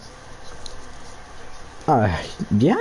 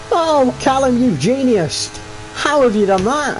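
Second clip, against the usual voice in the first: mock praise; 7 semitones higher, slower than usual.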